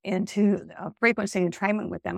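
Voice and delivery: hoarse, voice giving out; strained, fading raspy voice; losing voice. Real, not acted. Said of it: "I'm sorry, I'm losing my voice".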